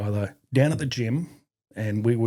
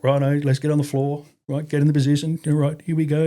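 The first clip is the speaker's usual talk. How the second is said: high, louder barked instructions; drill instructor; 5 semitones higher, 5 dB louder than usual. Retold or imitated. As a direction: run the drill firmly. Instructor ordering grappling drill.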